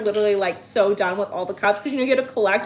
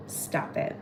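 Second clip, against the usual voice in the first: barely voiced, awed reaction; real hushed amazement; hushed disbelief; 11 dB quieter than usual. Real, not acted. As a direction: say it under your breath, stunned. Stunned by what is in the bag.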